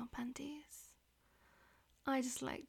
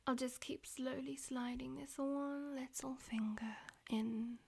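whispering. Acted. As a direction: whisper it close to the ear. Whispered throughout.

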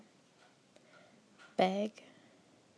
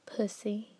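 "pussy" in a light Southern drawl; lightly put-on Southern belle; Southern belle accent. Shown as a demonstration. She reads the word list as a Southern belle, light Southern accent. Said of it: "switching to my Southern Belle".

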